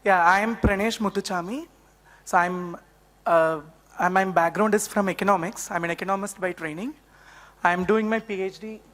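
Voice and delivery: hoarse, strained throat; speaking through a sore throat. Real, not acted. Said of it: "Apologies for my voice. I have a sore throat".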